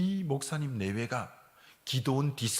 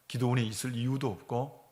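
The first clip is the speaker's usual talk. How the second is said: normal talking voice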